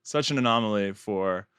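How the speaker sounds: dry sarcasm, stretching out "very"; deadpan mock surprise at the obvious; sarcastic. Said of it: "that is sarcasm".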